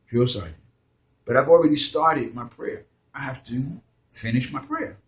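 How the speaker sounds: mildly calm and polite; a touch of calm politeness; very nice, calm. Retold or imitated. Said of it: "in a very nice, very calm voice".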